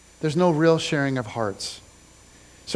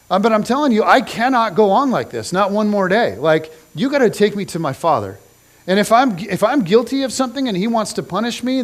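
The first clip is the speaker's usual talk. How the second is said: raised, urgent ultimatum; desperate demand; 3 semitones higher, 4 dB louder than usual. Retold or imitated. Banished son demanding Joab take him to the king, raised and desperate. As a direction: push hard, voice lifted, at the end of your rope. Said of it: "So Absalom says".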